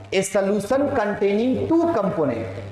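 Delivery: slow repeat for note-takers; measured, word-by-word dictation. Real, not acted. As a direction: read the definition out slowly. Repeats the dictated definition for class.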